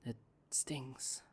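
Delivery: a hurt whisper that slips out; pained whisper. Real, not acted. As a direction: breathe it out, barely voiced. Confessing pain on a date.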